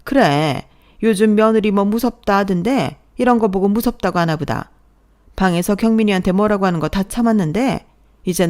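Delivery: mother-in-law sulkily mocks her daughter-in-law, sarcastic and offended. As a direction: play the hurt mother-in-law dripping with mild sarcasm. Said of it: "특유의 빈정상한 목소리로 말하셨어요".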